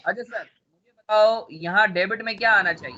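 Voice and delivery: ordinary talk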